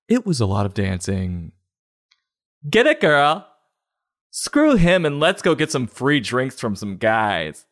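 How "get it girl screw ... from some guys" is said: high whoop easing down into slower egging-on; cheering club girlfriend. Acted. Friend cheering on a dumped girl at the club, high-pitched hype. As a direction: hype up your dancing friend.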